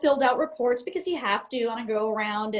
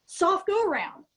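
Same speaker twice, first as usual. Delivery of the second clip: repeated insistently, pitched up, more urgent; more agitated captain; 6 semitones higher than usual. Retold or imitated. Captain repeating the command to his confused copilot, agitated. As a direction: push it like a captain losing patience. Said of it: "he's getting more agitated".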